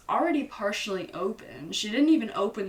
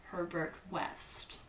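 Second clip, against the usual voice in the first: spooky whisper; 3 semitones lower, 10 dB quieter, slower than usual. Acted. Narrator whispers the creepy roommate's name. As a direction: breathe the name out slowly in a whisper.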